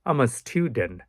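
"I'm a" kept down, "student" stressed; low I'm a, stressed student. Shown as a demonstration. Teacher modelling the sentence, "I'm a" down and "student" stressed. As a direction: run "I'm a" together low, lift "student" as styu-dent. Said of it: "down হবে আর স্টুডেন্টের এটা হবে উঁচা হবে".

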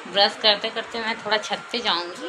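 talking around a toothbrush; while brushing teeth. Real, not acted. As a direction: speak with toothbrush in mouth. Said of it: "थोड़ा brush कर रही हूँ".

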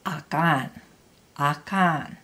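"Akan" with the second syllable stronger; light "A", weight on "kan"; stress on KAN. Shown as a demonstration. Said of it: "the next syllable louder".

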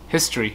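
"History" with a clear middle S; S sounded. Shown as a demonstration. Teacher corrects a missing S, clear middle S. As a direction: say "History" as his-tree, S audible. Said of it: "không có âm S ở".

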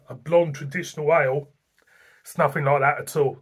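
normal talking voice

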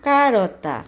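name the word কারোতা brightly for the viewers; teaching Italian word কারোতা with emphasis; quiz answer called out. Shown as a demonstration. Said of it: "আর এটা কি?".

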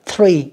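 "three" with an unvoiced TH; only breath on the TH of "three"; voiceless TH. Shown as a demonstration. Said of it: "cũng là không rung ha". ("three" với âm TH không rung)

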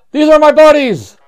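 high robot greeting. Acted. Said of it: "do the voice".

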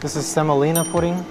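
muffled behind mask; speaking through respirator; through a face mask. Real, not acted. Seen 5: White respirator mask covers mouth and nose throughout; refs show none.

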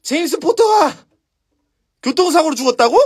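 high, indignant disbelief; acted fury. Giant told James Potter died in a crash, incensed. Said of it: "극대노".

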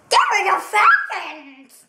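calls out the pick with force, a hammed-up Falcons claim. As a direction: announce it loudly, like a fan's rallying cry. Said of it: "that's a little strange".

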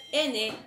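"N" más corta, con la lengua arriba; sonido de la N. Shown as a demonstration. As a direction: decir "N" breve y marcada. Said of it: "no es igual al sonido de la N". (pronunciar la "N" corta)

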